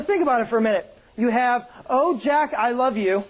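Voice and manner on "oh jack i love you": lightly acted swooning heroine, pitch lifted at first; mock movie heroine. Pastor parodying Titanic's heroine for the congregation, lightly melodramatic. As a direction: put a touch of melodrama on it.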